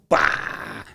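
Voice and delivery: unvoiced whispery slash noise; imitated knife whack. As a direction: make the blade's strike in one burst. Imitates the magic knife striking. (som de golpe de faca)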